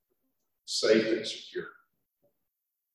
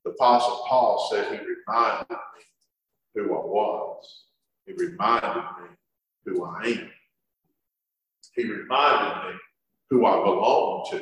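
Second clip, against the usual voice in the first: choked with tears; 5 semitones lower than usual. Real, not acted. Tearful preacher repeating reminded.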